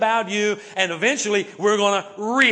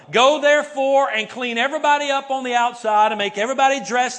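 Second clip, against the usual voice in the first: mock misquote; 3 semitones higher, 3 dB louder than usual. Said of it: "Is that what it says? No".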